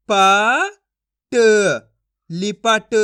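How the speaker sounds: "प" and "ट" loud and separate, then "लिपट"; teacher's deliberate "प", "ट", "लिपट"; sounding out and blending. Shown as a demonstration. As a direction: sound each letter alone, then join as "लिपट". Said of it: "एक एक अक्षर का उच्चारण करके".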